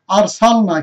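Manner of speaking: thick r in আর of আর সাল না; heavy R. Shown as a demonstration. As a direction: recite আর সাল না carefully with a full, heavy r. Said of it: "রটাকে মোটা করে পড়তে হয়". (আর সাল না-তে র মোটা করে)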